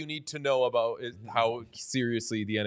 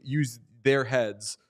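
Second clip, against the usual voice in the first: spelled out slowly; 3 semitones lower, much slower than usual. Shown as a demonstration. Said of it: "very clearly not saying".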